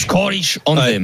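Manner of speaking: "Scottish Anthem" slowly, in a put-on English accent; attempted English accent. Host tries the colleague's pronunciation, slow imitated English accent. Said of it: "il dirait Scottish".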